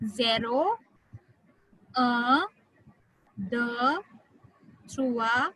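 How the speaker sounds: each of "Zero, un, deux" on to "dix" separate, with a pause after; one number at a time. Shown as a demonstration. Teacher models again for a student, "Zero" to "dix" spaced and rising. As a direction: lift the end of each number from "Zero" to "dix", then wait. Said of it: "और एक बार सुनो".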